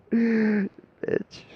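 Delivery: laughing it out loud and high. Real, not acted. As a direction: spit it out through a laugh. Laughing insult.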